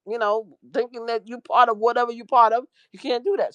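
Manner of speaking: high, disbelieving friend telling her off; incredulous scolding. Retold or imitated. Scolding friend about texting.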